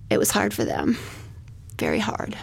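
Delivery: whispered grief; barely voicing the words; a whispered, pained aside; hushed. Real, not acted.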